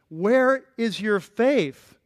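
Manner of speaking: retold astonishment, voice lifted and stretched; surprised question. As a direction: draw each word out in disbelief. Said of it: "Jesus was genuinely surprised".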